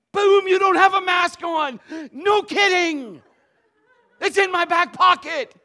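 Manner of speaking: "boom" shouted high and loud; preaching shout. Retold or imitated. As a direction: reenact the confrontation at full voice. Preacher reenacts confrontation loudly.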